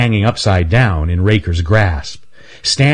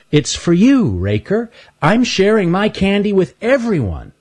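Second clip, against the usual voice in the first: high, friendly critter voice; Stanley's voice; 12 semitones higher than usual. Acted. Stanley hands Raker a candy bar, high and friendly. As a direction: kindly offer to a bully.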